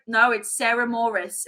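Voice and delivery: slow, lightly imitated British housekeeper; British accent. Housekeeper correcting the name, British accent. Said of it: "I'm loving your British accent".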